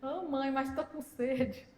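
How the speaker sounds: put-on slow, soft child's plea; pleading child. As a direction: imitate a thirsty kid, drawn out and small. Thirsty child pleading to mother.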